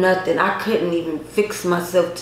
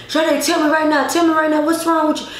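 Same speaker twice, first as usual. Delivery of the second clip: higher-pitched, pressing for an answer; retold urgent demand; 6 semitones higher, faster than usual. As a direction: act out a worried friend insisting. Friend demanding to know what's wrong.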